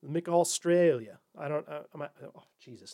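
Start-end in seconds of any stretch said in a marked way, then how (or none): 0.0-1.2 drawn-out, badly faked Australian accent; hammed-up amateur Australian accent. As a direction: stretch the vowels in a clumsy Aussie imitation. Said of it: "that was a bad accent".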